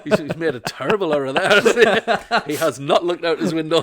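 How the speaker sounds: loud, slow, laughing through the words. Real, not acted. Comedian laughing at ice cream van in snow, loud laughing. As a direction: crack up at the van's mistake.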